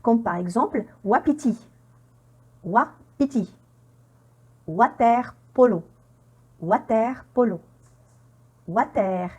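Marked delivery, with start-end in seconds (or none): 1.0-1.7 wapiti with the W said "wa"; W prononcé wa. Shown as a demonstration. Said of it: "prononcé wa". 2.6-3.5 wapiti modelled with a "wa" opening; W prononcé wa. Shown as a demonstration. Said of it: "prononcé wa". 4.7-7.6 Water polo with French "wa" in Water; W pronounced wa. Shown as a demonstration. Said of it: "prononcé wa".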